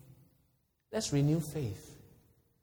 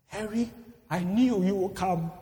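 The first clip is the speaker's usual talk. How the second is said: halting, drawn-out last words; dying man's words; 3 semitones higher than usual. Acted. Dying soldier thanks the friend who came, halting last words. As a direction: let each repetition out with long pauses. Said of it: "In his dying moments".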